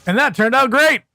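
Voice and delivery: overly bright, high sarcastic cheer. Real, not acted. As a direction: say it sweetly but mean the opposite. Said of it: "I'm being sarcastic when I say that".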